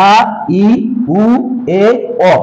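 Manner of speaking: আ, ই, উ, এ, অ spoken one by one, each given a pause; clear vowel drill. Shown as a demonstration. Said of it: "উচ্চারণ ঠিক করতে হবে".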